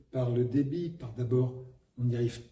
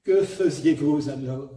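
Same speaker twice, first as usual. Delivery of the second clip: Sarah Bernhardt style; 6 dB louder than usual. Retold or imitated. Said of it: "ce que fait, euh, Sarah Bernard".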